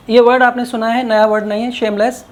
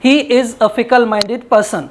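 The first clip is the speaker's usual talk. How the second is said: slow example; much slower than usual. Shown as a demonstration. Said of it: "कहते हैं".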